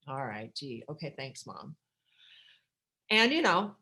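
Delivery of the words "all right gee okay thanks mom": softer, lower sarcastic mumble; sarcastic thanks. Retold or imitated. Answering her mother's hurtful request, soft sarcasm.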